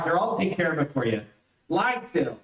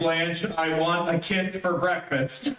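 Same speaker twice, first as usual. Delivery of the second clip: dutiful request; 3 semitones lower than usual. Acted. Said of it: "Well, ask for it".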